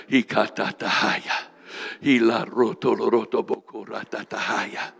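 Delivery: steady, murmured chant of tongues syllables; speaking in tongues. Real, not acted. Preacher praying over the church, chanting in tongues. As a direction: pray in tongues, rhythmic and unbroken.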